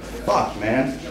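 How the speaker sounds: breathy stunned whisper, barely voiced. Son hearing his dad has cancer, stunned whisper. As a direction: let it out like the air left you.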